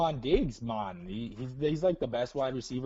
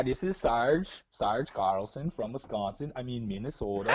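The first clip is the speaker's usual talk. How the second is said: put-on Upper Midwest accent; 3 semitones lower than usual. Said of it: "I like the way you say Carlson".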